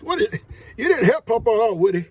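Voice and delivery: mock-scold your little dog; teasing pet talk. Real, not acted. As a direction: owner teasing his dog for not helping.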